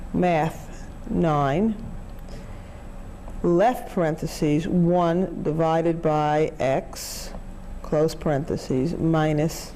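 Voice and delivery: slow keystroke-by-keystroke readout; dictating. Shown as a demonstration. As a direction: spell out each calculator entry. Reading calculator input aloud.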